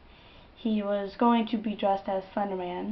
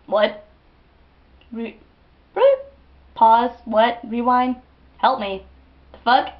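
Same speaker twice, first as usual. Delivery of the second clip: stunned disbelief; 2 semitones higher, 9 dB louder than usual. Acted. Acts out stunned disbelief at help.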